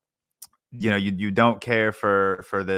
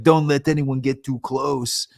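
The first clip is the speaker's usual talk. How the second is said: put-on high, slowed Irish accent; Conor McGregor impression; 5 semitones higher, 4 dB louder than usual. Podcaster imitating Conor McGregor's Irish line in the movie. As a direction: put on a hammed-up Irish brogue. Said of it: "that's my Conor McGregor accent".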